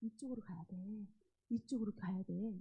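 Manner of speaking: softly voiced, fatherly correction; quietly steer a child back, lightly acted; gentle voice of God. God calling a stray child this way, gentle and soft. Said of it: "근데 하나님은".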